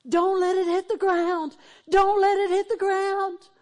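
high, loud urgent shout; the preacher voicing a man shouting at his friend on the flagpole, urgent yell; retold yell. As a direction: yell it across a burning yard. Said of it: "the other one's yelling at him".

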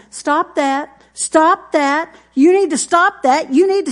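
put-on father scolding his kid, growing sharper; repeated scolding. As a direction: keep hammering stop that. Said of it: "the guy kept saying".

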